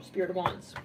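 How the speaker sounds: ordinary talk, nothing marked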